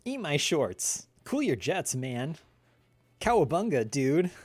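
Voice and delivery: lightly voiced cheeky cartoon boy; Bart Simpson. Shown as a demonstration. Answering chat's request, a lightly voiced Bart. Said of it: "Can you do a Bart impression?".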